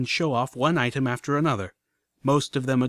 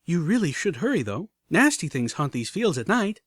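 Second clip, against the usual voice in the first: mock somber warning; 5 semitones higher than usual. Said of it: "suddenly somber expression".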